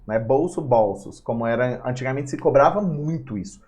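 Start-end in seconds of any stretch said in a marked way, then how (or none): 0.2-1.2 "Bolso" as BÔL-so, "bolsos" as BÓL-sos; closed then open o. Shown as a demonstration. Teacher showing metaphonic plural, closed then open vowel in "Bolso, bolsos". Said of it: "Plural metafônico é quando você fala".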